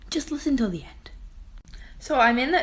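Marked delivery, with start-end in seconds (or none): 0.1-1.1 hushed, unvoiced plea to listeners; whispered aside. Real, not acted. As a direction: lean in and whisper it.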